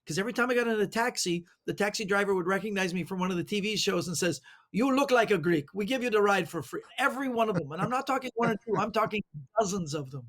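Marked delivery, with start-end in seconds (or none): 4.7-6.8 put-on Greek accent. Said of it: "That was my worst Greek accent".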